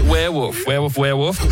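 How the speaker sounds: WEREWOLF as "were-woof", L swallowed; werewolf without the L. Real, not acted. Montage of the accused player's werewolves, L dropped. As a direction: let "wolf" turn into "woof". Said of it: "it actually does sound like wolf".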